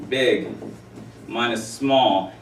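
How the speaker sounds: spaced out, slow; slow emphatic. Shown as a demonstration. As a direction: stretch each word. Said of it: "big minus small is a range".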